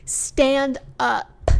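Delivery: commanding. Shown as a demonstration. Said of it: "I'm gonna show you what you need to do".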